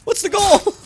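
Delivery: high and loud, laughing in disbelief; incredulous yell. Real, not acted. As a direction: shout it in disbelief. Outrage at remake.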